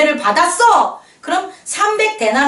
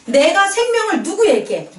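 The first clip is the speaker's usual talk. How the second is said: ordinary delivery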